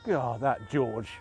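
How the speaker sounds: slow, low mock grievance; jokey grumble. Joking he'd resent a mod refusal, slow mock grumble. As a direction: drag it out in pretend annoyance. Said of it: "but in a jokey way".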